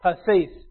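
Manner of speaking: Pases said slowly as pah-seys, with a clear ah and ey; Greek word pases. Shown as a demonstration. Preacher teaching the church the Greek word, pronouncing Pases pah-seys. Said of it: "The word here in the Greek is pases".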